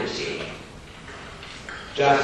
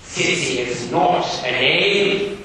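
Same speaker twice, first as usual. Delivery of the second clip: stern schoolmaster; 3 semitones higher, 4 dB louder, slower than usual. Acted. Gradgrind voiced in reading.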